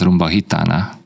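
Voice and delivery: a „hitana” szó elején G helyett H hang; spanyolos kiejtés. Shown as a demonstration. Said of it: "G betűt H-nak szokták ejteni". (spanyolosan, H-val kezdett „hitana”)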